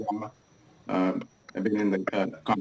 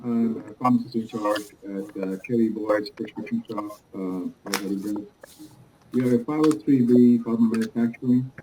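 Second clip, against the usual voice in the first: muffled. Real, not acted. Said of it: "It sounds like it's muffled".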